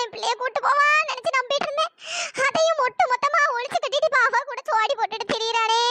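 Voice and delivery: mock wailing lament. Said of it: "இப்படி சும்மா ஒப்பாரி வச்சிட்டு".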